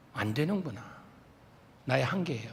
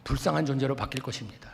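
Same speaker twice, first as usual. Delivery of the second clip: ordinary delivery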